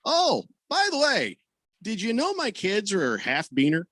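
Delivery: sweetly twist the knife; sarcastic. Retold or imitated. Telling off his girlfriend, mock-sweet and high. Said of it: "like, sarcastically".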